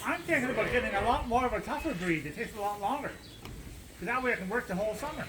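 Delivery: dry mock-serious teasing; sarcastic. Real, not acted. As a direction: tease with a sarcastic, swooping intonation. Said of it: "he's being sarcastic".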